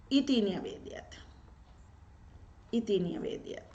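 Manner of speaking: इति न्यवेद्यत whispered, with no voice; quiet whisper to herself; whispered repetition. Real, not acted. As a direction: murmur the answer under your breath twice. Teacher repeats answer to herself.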